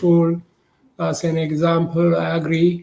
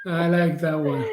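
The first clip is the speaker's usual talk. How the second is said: laughing; 5 dB quieter than usual. Real, not acted. Repeats, still laughing.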